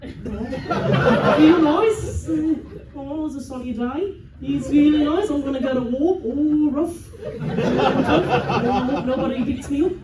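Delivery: put-on comic New Zealand accent, half laughing; amused mock New Zealand voice. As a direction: play a carefree Kiwi bad guy. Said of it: "can I get an accent from a country".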